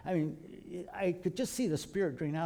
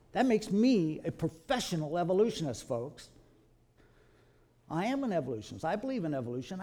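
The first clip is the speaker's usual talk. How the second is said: ordinary talk, nothing marked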